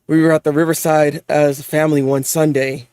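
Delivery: low, even storybook reading; story narration. A narrator's reading. Reading a manga memory aloud, low narration. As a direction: read it low and measured, like a recollection.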